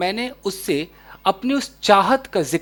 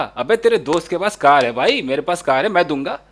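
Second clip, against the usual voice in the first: lightly voiced friend, a bit louder and chummy; mild swaggering buddy tone; casual buddy talk; 5 dB louder than usual. Shown as a demonstration. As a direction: toss it off like a pal offering his car. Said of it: "तो एकदम वो feeling दिखती है।".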